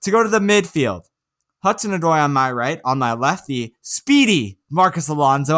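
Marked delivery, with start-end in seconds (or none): 3.5-5.5 mock praise leaning on "speedy"; sarcastic. Real, not acted. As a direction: say "speedy" louder, as obvious irony. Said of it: "I say that sarcastically".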